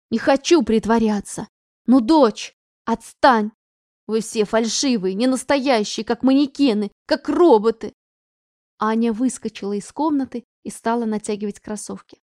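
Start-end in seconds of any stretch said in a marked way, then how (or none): 0.1-7.9 put-on loud, bitter teen outburst; angry outburst. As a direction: throw it back at her. Daughter shouts back at mother.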